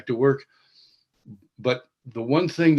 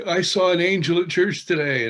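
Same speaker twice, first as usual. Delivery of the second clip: mock excited; 6 semitones higher, 3 dB louder than usual. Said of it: "I had friends who used to say".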